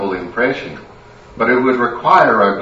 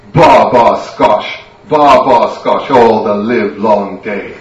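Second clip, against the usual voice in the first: loud tipsy chant of Ba ba scotch, slowing at the end; drunken singsong; 6 dB louder, slower than usual. Acted.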